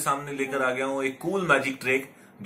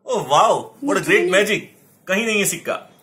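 excited; 4 semitones higher, 3 dB louder than usual. Pretend. Magician marvels at own trick.

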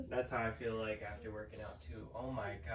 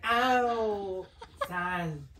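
laughing impression; 8 semitones higher, 7 dB louder than usual. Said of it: "She's gonna be like".

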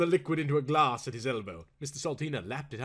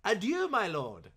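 mock French farewell; 7 semitones higher than usual. A narrator's reading. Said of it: "not to be outdone".

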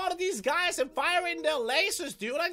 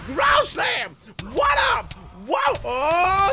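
excited battle yelling; 5 dB louder, much slower than usual. Real, not acted. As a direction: yell triumphantly, then in shock. Yelling in the fight.

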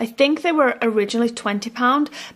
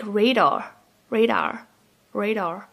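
American accent; slower than usual. Shown as a demonstration. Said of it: "said in an American accent".

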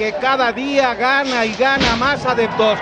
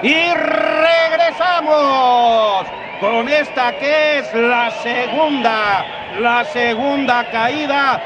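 wrestling commentator; slower than usual. Real, not acted. Commentator returning from break, stretched.

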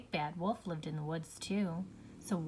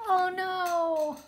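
surprised; 11 semitones higher, 7 dB louder than usual. Real, not acted. Straw house falls.

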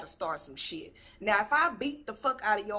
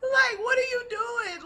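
high, slow, disbelieving; incredulous; 14 semitones higher, 6 dB louder, slower than usual. Real, not acted. Talking back at the yelling woman on screen, incredulous and slow. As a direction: stretch it out in pure disbelief.

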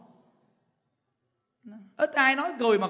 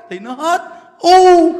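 louder, slower, higher declaration; emphatic loud punchline; 6 semitones higher, 13 dB louder, slower than usual. Real, not acted. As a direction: proclaim it slowly and loudly. Triumphant punchline of sermon. (tuyên bố to và chậm rãi)

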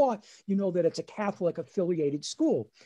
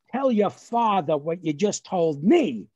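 slow, louder, emphatic order; stern mother; 5 dB louder than usual. Retold or imitated. Mother making son tell his father, stern. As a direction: imitate a mother demanding a confession, word by word.

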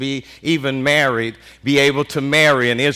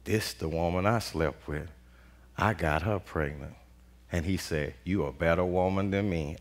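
much softer and lower, thinking aloud; Judah's quiet realization; 12 semitones lower, 13 dB quieter than usual. Retold or imitated. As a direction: let it dawn on him in a low hush. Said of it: "it dawned on him".

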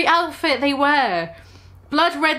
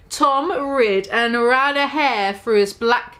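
slow careful reread; slower than usual. Shown as a demonstration. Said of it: "why can't I say that?".

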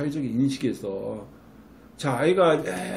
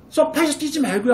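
much higher, sharp command; shrill scolding; 12 semitones higher, 4 dB louder than usual. Shown as a demonstration. Mom scolding a child jumping on the sofa, high and sharp. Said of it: "어?".

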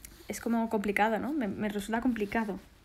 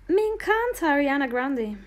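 "Me encanta Ariana Grande" said again higher and louder, stress on "me", falling end; really mean it this time, punching "me"; excited repeat; 4 semitones higher, 4 dB louder than usual. Real, not acted. To her stream viewers, gushing over a singer: excited, higher and louder.

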